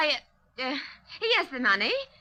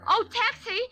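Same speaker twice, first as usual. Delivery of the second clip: higher-pitched cab hail; calling out; 4 semitones higher than usual. Acted. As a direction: call out to catch the driver. Hailing a cab.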